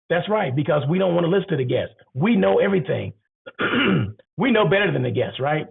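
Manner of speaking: mock the know-it-alls with irony; sarcastic. Real, not acted. Sarcastic jab at know-it-all hotels.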